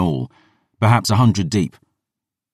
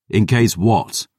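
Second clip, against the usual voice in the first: demanding; 4 semitones higher, slower than usual. Acted. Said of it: "I demanded".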